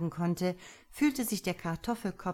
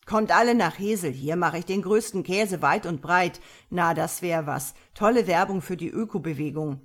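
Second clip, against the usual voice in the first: loud, lightly squawky mocking imitation; a touch of squawk, mockingly proclaimed; Käse Karl, quäkige Stimme; 7 dB louder than usual. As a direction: mimic a squawker, loud and taunting. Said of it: "ahmte Käse Karls quäkige Stimme nach".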